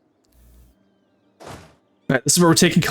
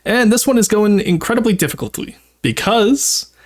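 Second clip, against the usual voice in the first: cute anime streamer; 8 semitones higher than usual. Acted. VTuber voice explaining challenge.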